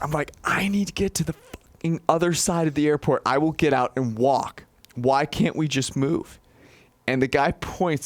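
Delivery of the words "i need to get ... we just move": play-acted voice raised a notch. Retelling a stalled airport shuttle, acting out his complaint: retelling raising his voice. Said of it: "I raise my voice".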